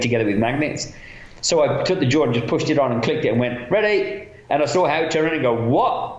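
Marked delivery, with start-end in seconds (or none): 3.7-4.3 a bright high call; calling out ready. Retold or imitated. Makeup artist calls across the set to the cameraman, bright and high. 5.7-6.2 high disbelieving what; surprised what. Retold or imitated. Cameraman turns around amazed at the quick reset, disbelieving.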